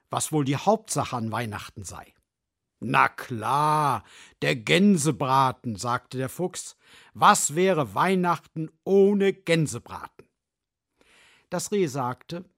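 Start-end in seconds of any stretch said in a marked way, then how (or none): 2.8-5.8 loud eager fox; a fox craving roast goose, loud. Acted. Fox calls for goose, loudly. 7.1-10.3 loud eager fox; a fox craving roast goose, loud. Acted. Fox calls for goose, loudly.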